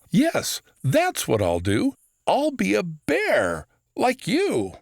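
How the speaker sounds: put-on high, eager little boy; a hopeful young kid. Child Orson voiced.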